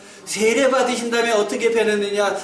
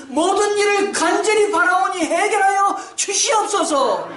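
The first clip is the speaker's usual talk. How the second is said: higher, crying out for mercy; desperate pleading prayer; 10 semitones higher than usual. Acted. Pastor voicing the Canaanite woman begging Jesus, higher desperate pleading. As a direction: beg the Lord, voice lifted high and straining.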